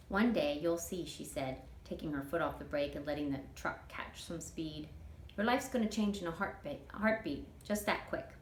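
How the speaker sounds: easygoing Southern auntie dreaming aloud; a hint of a chatty older woman; Toot, folksy older woman. Toot's voice in read story.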